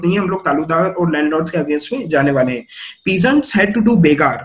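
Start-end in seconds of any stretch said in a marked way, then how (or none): 3.1-4.3 textbook reading. Shown as a demonstration. Reads the textbook aloud.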